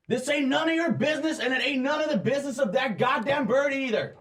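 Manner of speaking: very high, fast hillbilly thug voice; mock the hero with a sneer. Thugs telling the player to butt out, sneering. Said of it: "they say".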